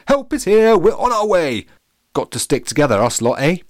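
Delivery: loud high posh call. Acted. Captain reassures banana from afar, loudly.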